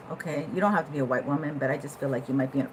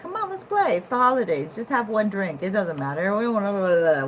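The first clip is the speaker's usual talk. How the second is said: tempting party friend; 3 semitones higher, 4 dB louder than usual. Retold or imitated. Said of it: "They're like".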